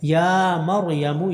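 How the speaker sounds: slow drawn-out tajweed chant; slow tarteel recitation; Quran recitation. Shown as a demonstration. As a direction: recite each vowel long and measured. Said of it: "یا کو لمبا کریں گے".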